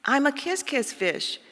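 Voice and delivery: sing-song the happy new refrain; cheery kiss-kiss refrain. Acted. Fish proclaiming his new kiss refrain, high and cheerful.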